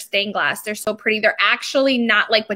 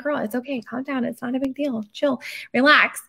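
soft, hushed calming words; soothing reassurance; 5 dB quieter than usual. Retold or imitated. Host soothing her nervous guest, softly reassuring. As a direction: settle a jittery friend gently.

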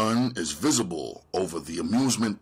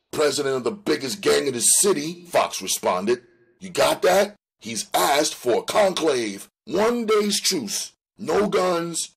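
higher, pressing gang tough spelling out the rules; insistent gang member; 7 semitones higher, 3 dB louder than usual. Acted. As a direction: Fox hammering the truce terms home. Fox voiced explaining the truce.

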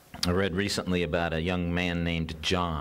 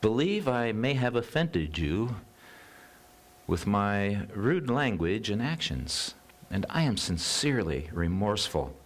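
lightly voiced polite parrot, raised pitch; a prim, over-polite parrot apology; a hint of a contrite, very proper bird; very calm parrot; 3 semitones higher than usual. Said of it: "he said very calmly".

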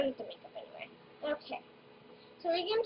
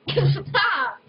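being tickled; 12 dB louder, much slower than usual. Real, not acted. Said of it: "Stop tickling me".

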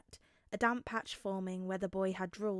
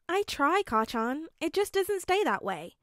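put-on timid boy; 7 semitones higher, 4 dB louder than usual.

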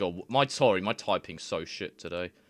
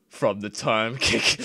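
laughing; 5 dB louder, slower than usual. Real, not acted. Reading while laughing.

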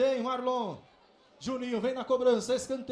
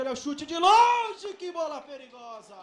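excited call; 4 dB louder than usual. Real, not acted. Long-range shot.

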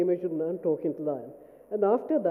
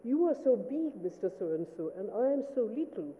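imitating a coy colleague, softly; lightly mimicked flirty request; mildly flirtatious; 5 dB quieter than usual. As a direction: coax lightly, pitched up at the start. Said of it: "a little bit flirtatious".

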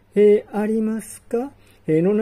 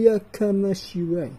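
ordinary talk, nothing marked

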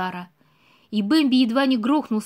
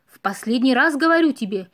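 louder shout; 3 dB louder than usual. Acted. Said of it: "ещё громче крикнул Бэмби".

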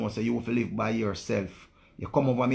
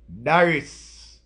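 calling out; 3 semitones higher, 6 dB louder than usual. Real, not acted. Calling out a viewer's name.

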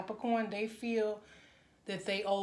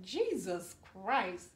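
teary; slower than usual. Real, not acted. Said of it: "I'm getting teary-eyed".

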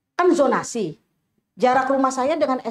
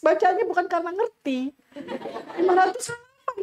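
laughing; 4 semitones higher than usual. Real, not acted. Mother moved, laughing at novel.

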